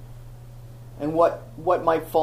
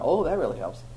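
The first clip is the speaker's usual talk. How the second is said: sarcastic; 3 semitones lower, 4 dB quieter than usual. Retold or imitated. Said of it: "I went".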